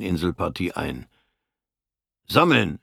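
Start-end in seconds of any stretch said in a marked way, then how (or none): 2.3-2.8 Befehlsruf. Acted. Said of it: "hörten sie es hinter sich brüllen".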